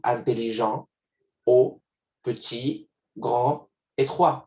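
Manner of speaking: French masculine adjectives, final T and D silent; silent final consonant. Shown as a demonstration. Teacher to students, reading masculine forms with silent endings. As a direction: say "intelligent", "haut", "petit", "grand", "étroit" with the last consonant dropped. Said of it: "No pronuncio ni la T ni la D".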